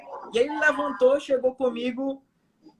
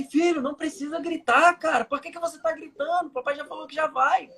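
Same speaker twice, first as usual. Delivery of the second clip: higher-pitched retold scolding; exasperated father; 5 semitones higher than usual. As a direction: protest to a yelling child, pitched up. Father scolds shouting child in retelling.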